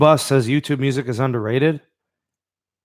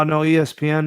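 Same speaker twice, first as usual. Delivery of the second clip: normal talking voice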